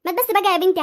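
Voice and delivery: ordinary delivery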